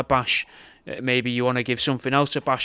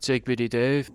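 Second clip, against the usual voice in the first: catchphrase shout-out; 4 dB quieter than usual. Acted. Inserted catchphrase clip voice.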